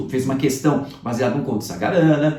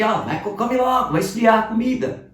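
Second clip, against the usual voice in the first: a hint of a scolding mother, higher; mum's scolding; 7 semitones higher than usual. Teacher imitating a mother telling kids to eat, higher. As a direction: playfully nag like a mum. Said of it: "recebemos bronca da mamãe".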